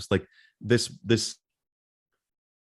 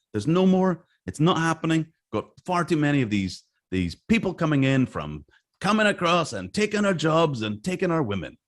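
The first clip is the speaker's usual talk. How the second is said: mock officials; 5 semitones higher than usual. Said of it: "voicing anti-immigration officials".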